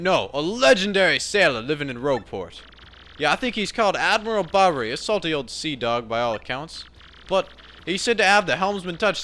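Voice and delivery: salty crewman piping up to the captain; rough-and-ready sailor. Acted. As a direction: call out like a cheeky sailor. Sailor tells of legendary sailor.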